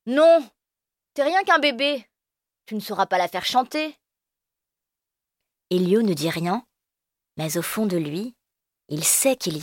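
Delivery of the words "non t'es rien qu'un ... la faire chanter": high scornful refusal, loud on non; mocking big kid. Firmin refusing Elio his flute, loud and scornful. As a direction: sneer at the little one. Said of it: "Firmin répond".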